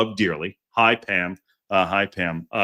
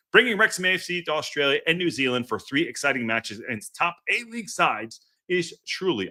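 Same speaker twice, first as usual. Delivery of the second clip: rock jock voice; 5 semitones higher than usual. Pretend. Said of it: "I sound like a rock jock from nineteen ninety-seven".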